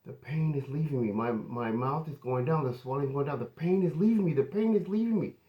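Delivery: high excited cry, building in pitch; retold screaming. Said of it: "she started screaming".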